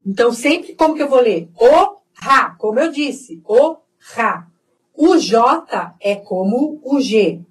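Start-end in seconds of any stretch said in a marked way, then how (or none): 1.6-2.6 "O, ra" split in two, second syllable a rasped kha; throaty Spanish J. Shown as a demonstration. Teacher reads hoja, throaty J in "ra". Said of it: "som de R bem forte na garganta". 3.4-4.5 "O, ra" split in two, second syllable a rasped kha; throaty Spanish J. Shown as a demonstration. Teacher reads hoja, throaty J in "ra". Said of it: "som de R bem forte na garganta".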